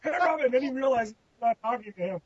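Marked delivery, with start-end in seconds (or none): 0.0-0.4 high-pitched imitation of a holler; sing-out mock greeting, pitched way up; mock calling out. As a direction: call out in a goofy high voice. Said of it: "of course, I go".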